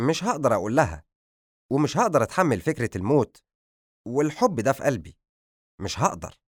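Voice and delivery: exasperated outburst, often rushed, sinking at the end; frustrated and worked up over a hopeless love; angry, agitated. Acted. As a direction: protest in mild, agitated anger. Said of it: "نظر لها بغضب وأجاب بعصبية".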